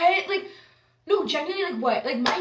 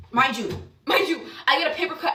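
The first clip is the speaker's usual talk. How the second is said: laughing through the words; 2 semitones higher, 4 dB louder, faster than usual. Real, not acted. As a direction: chuckle while saying it. Laughing at own fragility.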